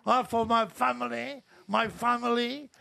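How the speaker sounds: mock a grand US president address; American president voice. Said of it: "il parle comme un président américain".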